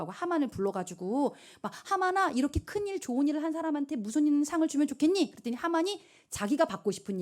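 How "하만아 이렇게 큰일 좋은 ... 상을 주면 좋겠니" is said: lightly voiced higher-pitched king; king consulting. King asks Haman about a reward, lightly acted consulting. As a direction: put a question to a trusted official.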